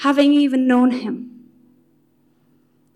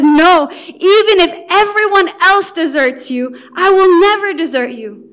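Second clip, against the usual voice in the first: a louder, earnest vow of loyalty; bold protest; 3 semitones higher, 5 dB louder than usual. Acted. Peter interrupting Jesus at dinner, bold and insistent. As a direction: insist he'll never leave, with fire.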